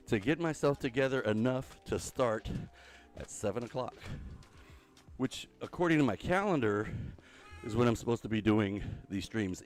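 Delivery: out of breath on a treadmill; while exercising. Real, not acted. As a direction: talk while walking fast, winded. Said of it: "that's why I sound like I'm out of breath".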